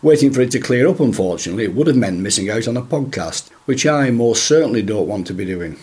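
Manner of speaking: hoarse from a chest infection; croaky, rough throat while talking. Real, not acted. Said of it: "apologise for my croaky voice".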